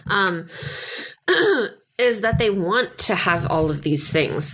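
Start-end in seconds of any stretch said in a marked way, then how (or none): 0.5-1.7 throat clearing. Real, not acted. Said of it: "What noise was that".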